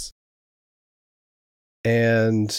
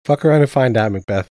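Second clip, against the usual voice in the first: cocky taunt; 3 semitones higher, 7 dB louder than usual. Acted. Character taunts the defeated Lady Macbeth.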